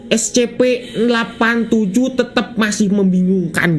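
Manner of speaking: slow, deliberate narrator read of the game's text; reading game lore. Acted. Gamer reading the story text to viewers, slow narrator voice.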